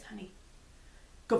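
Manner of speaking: a hint of a dead-serious sleep-talker. Wife quoting her sleep-talking husband, very serious. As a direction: give the order gravely, barely acted. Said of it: "very serious".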